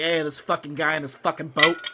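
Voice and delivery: lightly voiced Boston accent; a hint of a gruff Boston guy. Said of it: "they sound like they're out of Boston".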